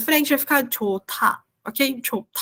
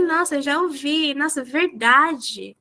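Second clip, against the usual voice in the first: mock amazement; slower than usual. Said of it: "Tem que falar assim".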